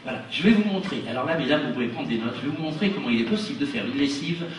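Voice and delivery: showman patter for the audience; patient magician explaining a trick; kids party magician. Acted.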